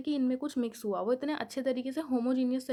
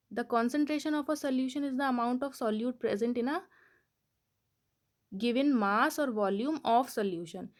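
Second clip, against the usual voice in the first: definition read out slowly, word by word; slow dictation; much slower than usual. Shown as a demonstration. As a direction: dictate it so students can write. (धीमे-धीमे परिभाषा लिखवाना)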